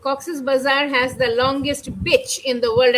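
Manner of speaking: beach said as "bitch", with a short i; short-i slip on bitch; imitated mispronunciation. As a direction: quote it with the short vowel in bitch. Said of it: "It's not a bitch, it's beach".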